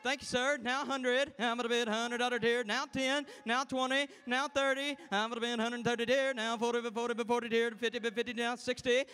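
rolling auctioneer bid chant. Acted. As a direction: call the bids like an auctioneer. Auction contest bid calling.

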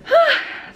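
breathless sigh. Real, not acted. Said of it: "out of breath from walking".

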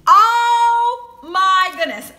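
loud, long drawn-out marvelling; awed excitement. Real, not acted. Vlogger marvelling at cherry cheesecake candy, excited. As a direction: stretch it out high and loud, thrilled.

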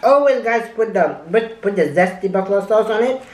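talking between bites; muffled by food; mouth full, chewing. Real, not acted. Seen 3: Eyes closed, lips working with food while spooning from cup.

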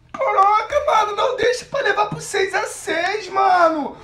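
loud half-crying laugh; panicked laughing. Real, not acted. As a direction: freak out laughing. Panicked laughing reaction to the match.

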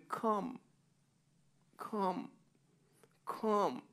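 hushed, gentle calling of come; soft call. Acted. God softly calling drifting people, hushed. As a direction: call them home softly, almost a whisper.

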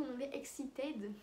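excited in a self-conscious English accent, a bit slow. Real, not acted. Correcting herself for viewers, in English-accented excited. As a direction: lean into the English word excited. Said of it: "Désolée pour mon accent pourri".

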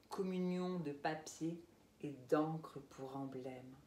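intimate, unhurried verse reading; poetry recital. Acted. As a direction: let each image settle before the next, fading to a hush at the end. Reads own poem aloud.

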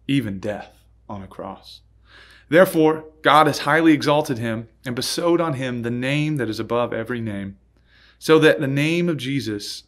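measured, solemn Bible reading; scripture reading. Acted. Pastor reading Philippians to the congregation, solemn reading voice. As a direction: read the verses aloud with weight.

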